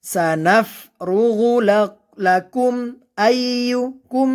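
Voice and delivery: slow chant, "লাকুম" closed on a clear m without humming; clear izhar. Shown as a demonstration. Teacher showing learners "লাকুম" with a clear, unhummed m. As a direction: sound the m of "লাকুম" cleanly, no nasal hold. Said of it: "মিম সাকিন গুণনা হবে না".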